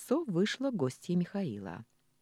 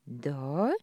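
недоверчиво. Acted. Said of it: "недоверчиво протянула та".

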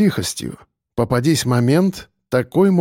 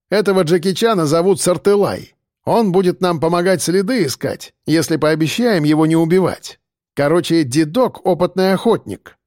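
lively report; 4 semitones higher than usual. Acted. Reporting loudly to the gang.

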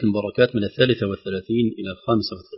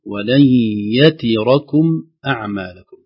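يتركم spelled out slowly and deliberately; unhurried Tajweed reading of يتركم; slow careful reading; slower than usual. Shown as a demonstration. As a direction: read ولن يتركم syllable by syllable. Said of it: "بتهج وتأن".

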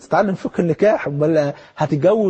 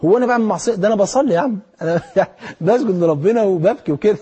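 mock indignant; 2 semitones higher than usual. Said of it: "في ناس تقول لك كده".

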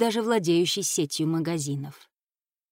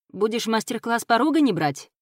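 ironic; 4 semitones higher than usual. Acted. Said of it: "иронично вопросил Дэйв".

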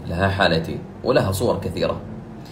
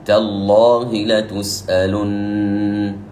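very slow recited "تالله لتسألن" with a full, heavy lam; slow tajweed recitation; recited example; 3 dB louder, much slower than usual. Shown as a demonstration. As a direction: chant "تالله" with the lam made heavy after the fatha. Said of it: "فنقول".

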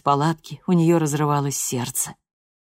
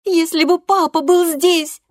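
much higher and louder, near shouting; furious threat; 13 semitones higher, 7 dB louder than usual. A narrator's reading. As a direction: threaten her mother at full pitch. Loredo cries out for father.

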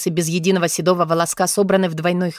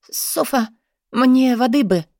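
weak squeak; 5 semitones higher, slower than usual. Acted. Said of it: "слабо пискнула Британи".

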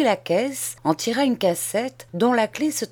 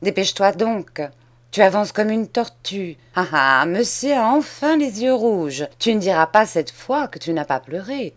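scolding cousin. Acted. Macmiche scolds Charles.

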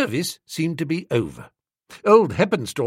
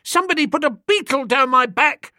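put-on much higher, boyish pleading; whining choirboy; 10 semitones higher, 4 dB louder, faster than usual. A narrator's reading. Choirboy excusing himself to the vicar, high whine. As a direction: plead like a caught small boy.

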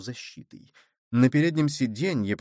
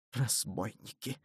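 much softer, breathed under the breath; whispered; 11 dB quieter than usual. A narrator's reading. Hidden cardinal whispers about the patrol, much softer. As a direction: hiss it out in hiding. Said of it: "прошептал он".

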